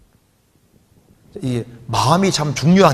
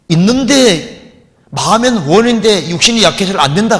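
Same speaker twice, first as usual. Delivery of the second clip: raised, loud preaching line; emphatic proclamation; 6 semitones higher, 5 dB louder than usual. Acted. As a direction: drive the point home loudly.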